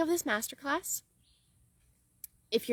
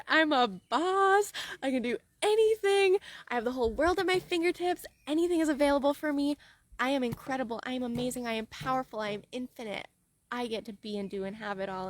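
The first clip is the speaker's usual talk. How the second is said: triumphant boast; 2 semitones higher than usual. Retold or imitated. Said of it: "I'm gonna be like".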